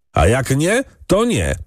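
high, reckless yell; a servant shouts recklessly at the ordynat; defiant shout. A narrator's reading. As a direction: blurt it out defiantly. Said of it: "krzyknął drugi rozrzutnie".

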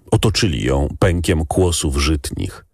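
ordinary delivery

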